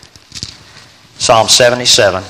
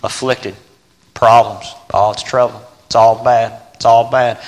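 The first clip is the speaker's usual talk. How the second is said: mock complainer. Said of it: "him sitting there saying".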